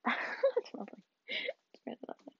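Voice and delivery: dry sarcastic lovely, trailing very soft; mock delight at the pain; quiet sardonic aside. Real, not acted. Sarcasm after hurting herself.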